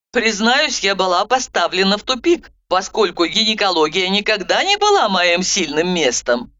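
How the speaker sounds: usual speaking voice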